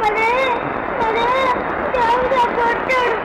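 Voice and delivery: whining through tears; tearful complaint. Acted. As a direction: draw out the words in a crying child's wail. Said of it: "ఎందుకమ్మా ఏడుస్తున్నావు". (ఏడుస్తూ ఫిర్యాదు)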